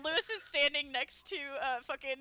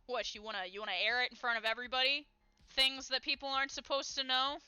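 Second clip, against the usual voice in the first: building irritation, faster; aggravated. Acted. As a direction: push back, getting more annoyed. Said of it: "getting more aggravated".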